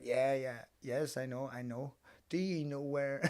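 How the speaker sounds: lightly imitated foreign accent; careful English like a foreigner. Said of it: "speak like I'm a foreigner".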